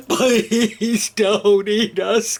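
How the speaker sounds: slow, trembling plea; pleading cry. Acted. Scared dogs begging the monster, slow pleading. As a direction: beg for your life. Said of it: "cried the dogs".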